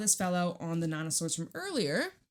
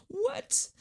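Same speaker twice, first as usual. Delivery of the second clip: mock surprise. Mock disbelief at fear.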